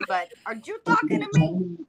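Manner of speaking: bad Italian accent, high and loud; hammy Italian gangster voice. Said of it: "start with my Italian accent again, which sucks".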